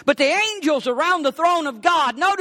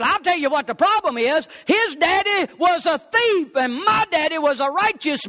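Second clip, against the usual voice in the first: heated, higher-pitched complaint; indignant wife; 5 semitones higher than usual. Acted. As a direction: set the rabbi straight, indignantly. Wife argues over the fathers' characters.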